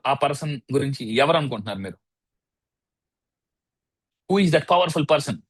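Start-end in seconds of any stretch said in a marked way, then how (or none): 4.3-5.4 slow quiz question. Shown as a demonstration. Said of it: "quiz to audience".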